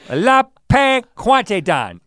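slow, high mock French; drawn-out hammy French; fake French accent. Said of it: "You said it in a, some other accent".

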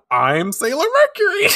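high, loud heroine declaration; over-the-top magical girl shout; hammed-up battle cry. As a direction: cry it out in mock triumph, on the edge of laughter. Acts out Ami's unhinged declaration.

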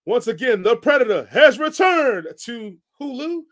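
rock voice. Acted. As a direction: boom it out like a gravel-throated rock. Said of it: "So in my rock voice".

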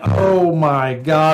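slow, drawn-out mild dismay; retold dismay. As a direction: stretch out each word in understated horror. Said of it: "And I went".

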